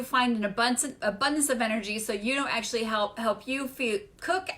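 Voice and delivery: distracted, tripping and restarting phrases; real verbal fumbling while distracted by reading; stumbling over words. Real, not acted. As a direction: lose your thread and repeat words. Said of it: "I'm stumbling over my words".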